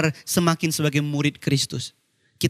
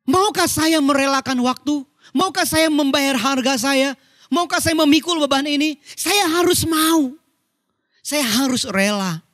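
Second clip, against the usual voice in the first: slow, emphatic preaching, raised in pitch; impassioned preaching; 7 semitones higher, slower than usual. Real, not acted. Preacher challenging himself to be willing to serve, impassioned. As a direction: press each question on yourself, then resolve slowly.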